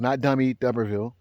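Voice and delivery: usual speaking voice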